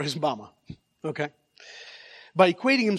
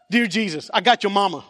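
raised, loud kidnapper threat, played for laughs; mock ransom note; 6 semitones higher, 7 dB louder than usual. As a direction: build louder and higher like a comic ransom demand. Boy's ransom note to Jesus.

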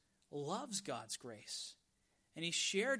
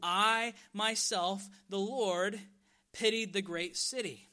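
"I myself" drawn out slow and loud; stress on I; 2 semitones higher, 6 dB louder than usual. Acted. God contrasting himself with Jonah, "I" stressed slowly and loudly. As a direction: hit "I" hard and hold it, staying loud. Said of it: "God emphasizes the word "I".

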